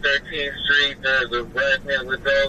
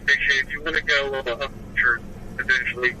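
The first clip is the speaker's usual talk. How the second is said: radio chatter from a patrol car; officer calling in over the radio; police radio. Real, not acted. Officer reporting over scanner.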